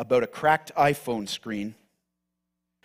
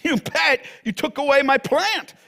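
high, loud self-justifying protest; indignant Jonah; 11 semitones higher, 7 dB louder than usual. Acted. Jonah justifying himself to God, loud and indignant. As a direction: whine it like you've been cheated. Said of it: "Jonah, trying to justify himself".

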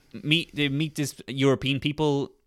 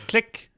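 imitated mine click; 8 semitones higher than usual.

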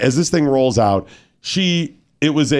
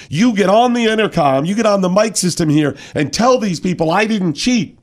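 high, insistent mock demand; indignant player; 6 semitones higher than usual. Host mimicking player ordering umpire to clear her, mock indignant. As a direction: imitate an outraged player ordering the umpire about. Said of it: "got indignant over and over".

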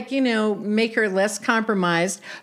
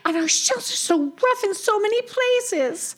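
higher-pitched chatty cartoon tortoise; excitable young tortoise; 12 semitones higher than usual. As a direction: play a bubbly storybook tortoise.

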